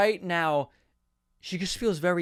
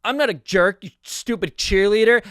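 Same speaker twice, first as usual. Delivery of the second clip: louder, overacted retort; mock indignant comeback; 3 semitones higher, 6 dB louder than usual. Joe hits back at the cheerleader, mock indignant. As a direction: throw the insult back, hammed up. Acted comeback in script quarrel.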